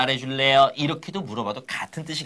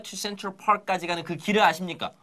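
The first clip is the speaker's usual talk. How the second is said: slow explaining; 3 semitones higher than usual. Shown as a demonstration. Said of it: "어떤 길일까요".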